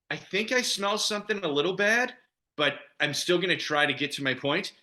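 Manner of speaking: squinting as if something smells a little bad; Boston attitude. Shown as a demonstration. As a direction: put across a mildly disgusted Boston attitude. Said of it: "It's more of an attitude".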